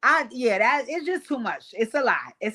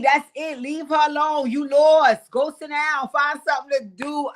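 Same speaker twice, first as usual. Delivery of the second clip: 1 bossy dismissal; 4 semitones higher, 4 dB louder than usual. Retold or imitated. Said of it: "Summer said".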